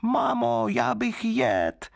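put-on very high little-child voice, slow and demanding; a hungry wooden baby whining for food; greedy child crying out. A narrator's reading. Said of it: "vztahovat k ní ručičky a křičet".

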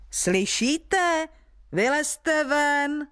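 high, slow giant's call. A narrator's reading. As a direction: draw it out, summoning the hiding villagers. Giant calls villagers out.

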